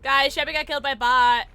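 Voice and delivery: words broken by loud laughter; cackling announcement to chat; laughing. Real, not acted. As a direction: laugh through the news. Laughing at teammate death.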